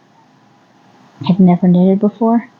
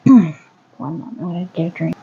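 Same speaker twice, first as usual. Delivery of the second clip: hoarse from dust; 2 semitones lower than usual. Real, not acted. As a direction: voice rough from coughing dust. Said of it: "Don't mind my voice".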